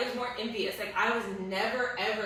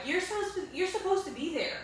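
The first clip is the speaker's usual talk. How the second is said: retold angry plea; 8 semitones higher than usual. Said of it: "I was so angry".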